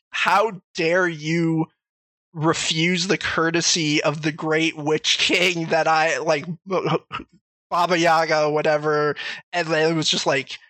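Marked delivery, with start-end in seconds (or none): 0.1-9.2 drawn out, lightly pompous witch; slow mock witch. Witch scolding the player for refusing tea, slow mock outrage. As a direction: stretch out the offended grandeur. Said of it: "she's like".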